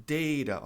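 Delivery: "Data" as DAY-ra, with a tapped T; long A, flapped T. Shown as a demonstration. Teacher giving an example word, DAY-ra with flap. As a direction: say "Data" with an "ei" vowel and tap. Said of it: "pode ser data também".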